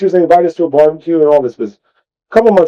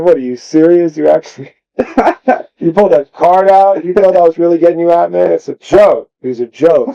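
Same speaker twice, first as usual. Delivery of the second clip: incredulous; 5 semitones higher than usual. Retold or imitated. Acting out his disbelief at kid.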